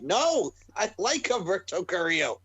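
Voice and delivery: high-pitched cry of protest; mock protest. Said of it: "I'm like".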